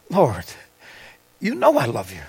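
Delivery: low, soft, humbled answer; subdued reply. Acted. Peter answers Jesus's repeated question, subdued reply.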